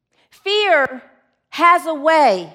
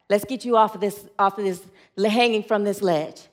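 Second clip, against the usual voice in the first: lightly voiced God, low and steady; booming voice; 6 semitones lower, 4 dB quieter than usual. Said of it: "It's a booming voice".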